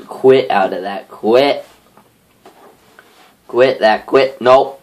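urgent insistent commands. Real, not acted. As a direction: jab each quit urgently. Struggling to exit the game.

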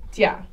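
dia squeezed into one syllable, dyah; dia as dyah, no separate i; blended diphthong. Shown as a demonstration. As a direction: say dia with a weak i sliding into a. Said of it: "If it didn't, we would say".

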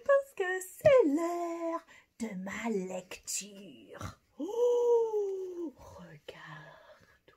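high, sing-song puppet voice. Pretend. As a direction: play the cheerful little puppet friend. Puppet friend speaking.

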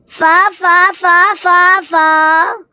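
repeating the word evenly, as if stuck; stuck stammering repeat. Acted. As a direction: stammer on one word in steady bursts. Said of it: "I'm gonna be stammering four".

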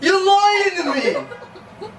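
high, drawn-out accusation; worked-up, incredulous protest; angry accusation. Acted. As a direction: accuse them, voice climbing. Accusing them of being stoned.

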